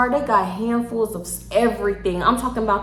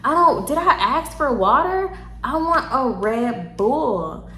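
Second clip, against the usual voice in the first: put-on drunk slurring; 2 semitones higher, slower than usual. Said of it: "drunk, slurring everywhere, screaming".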